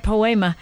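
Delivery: "poema" echoed as po-AY-ma; Greek pronunciation. Retold or imitated. Host echoing the Greek word, "poema" as po-AY-ma. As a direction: say "poema" with a stressed middle AY. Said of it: "the way it would be in Greek".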